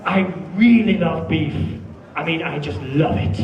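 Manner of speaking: "really" stressed with real enthusiasm; with feeling. Shown as a demonstration. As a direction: show you truly love it. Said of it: "So you have to say".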